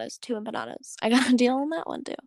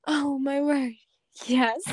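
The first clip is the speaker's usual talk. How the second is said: mock gushing Cassie; 3 semitones higher, much slower than usual. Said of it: "Cassie responds with".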